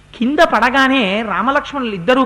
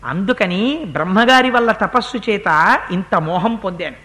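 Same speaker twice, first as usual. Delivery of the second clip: dying demon pleading; 3 semitones lower than usual. Acted. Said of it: "వాడు అన్నాడు". (రాముడిని మెల్లగా వేడుకుంటున్న రాక్షసుడు)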